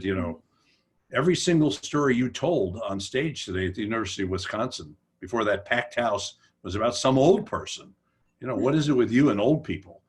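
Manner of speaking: mock a young upstart's pointed complaint; with attitude. Young guy confronting Kuralt over old-people stories, with attitude. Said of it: "he said this with attitude".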